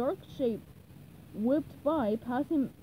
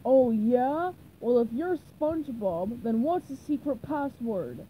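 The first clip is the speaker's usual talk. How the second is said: skeptical; 4 dB louder, slower than usual. Acted. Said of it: "Patrick looked skeptical".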